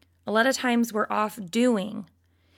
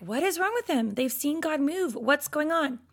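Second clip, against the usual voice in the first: incredulous; 4 semitones higher than usual. Retold or imitated. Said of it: "I'll look at that and be like".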